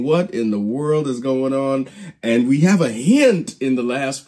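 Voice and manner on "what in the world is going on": mildly incredulous, raised pitch; incredulous disciples. Retold or imitated. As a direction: voice their disbelief with emphasis. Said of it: "We have the disciples incredulous saying".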